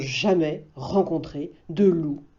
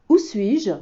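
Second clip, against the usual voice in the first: a lightly voiced lost wolf, a bit higher; dazed wolf asking; 6 semitones higher than usual. Wolf waking up asks the bears, lightly voiced. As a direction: ask it like you just woke up confused. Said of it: "demande-t-il aux trois ours".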